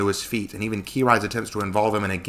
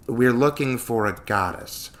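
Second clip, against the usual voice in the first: careful; 3 semitones higher, slower than usual. Acted. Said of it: "careful with my words".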